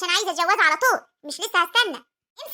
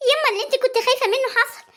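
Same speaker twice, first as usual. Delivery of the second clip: alarmed outcry; 7 semitones higher than usual. Acted. Daughter bursts in with bad news.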